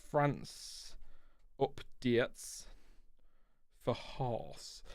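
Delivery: quiet, put-on French accent on France updates for Haas; mock French accent. Reading a viewer's chat note aloud in a mock French accent. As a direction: say it like a hammed-up Frenchman, softly. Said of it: "I don't know what the accent was about".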